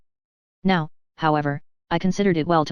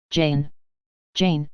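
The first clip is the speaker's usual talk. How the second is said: a touch of bitter sadness, a little lower; 3 semitones lower than usual. A narrator's reading. Rochester to Jane, mildly sad. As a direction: say her name lightly heartbroken. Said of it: "in such an accent of bitter sadness".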